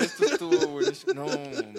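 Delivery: high-pitched laughing speech. Real, not acted. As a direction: crack up mid-sentence. Laughing hard at the mix-up.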